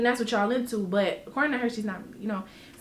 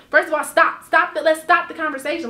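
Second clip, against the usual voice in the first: firm stop; 4 semitones higher, 4 dB louder than usual. Retold or imitated. Shutting down the conversation.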